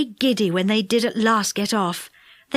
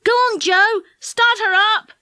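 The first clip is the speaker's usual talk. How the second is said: excited; 10 semitones higher, 4 dB louder than usual. Acted. Dick urging Joe.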